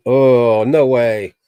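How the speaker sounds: loud startled oh no way; mock-shocked exclaim, voice jumping up; retold surprise. Friend hearing the news, shouting in disbelief. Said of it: "He goes".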